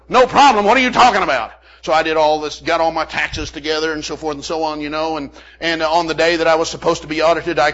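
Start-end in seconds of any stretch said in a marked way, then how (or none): 0.1-1.5 loud, high disbelieving echo; mock outraged disbelief; incredulous. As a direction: throw the words back in shock. Retorting to tax preparer.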